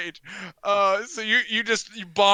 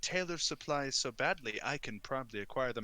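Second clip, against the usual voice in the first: reluctant merchant; 5 semitones lower, 10 dB quieter than usual. Acted. Game master voices coat and rug merchant.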